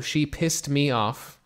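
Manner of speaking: slowly, each word clear; unhurried classroom model; slow example phrase. Shown as a demonstration. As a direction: lay it out for learners.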